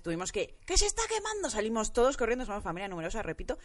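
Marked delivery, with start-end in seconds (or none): 0.7-1.5 retold alarm cry. Calling family about the fire.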